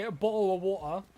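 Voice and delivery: "bottle of water" run together, middle consonants dropped; quick, loose "bottle of water" with swallowed t's; mock unenunciated. Shown as a demonstration. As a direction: slur "bottle of water" quickly into bo'le-a-wa'a. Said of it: "you think I'm gonna say".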